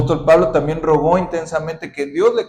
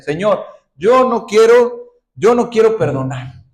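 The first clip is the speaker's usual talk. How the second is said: stubborn refusal; 5 semitones higher, 6 dB louder than usual. Acted. Stubborn believer's prayer acted.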